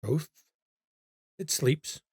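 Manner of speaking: put-on lightly accented, low, brooding stranger; a mysterious German man, mildly ominous. GM voices Liebner.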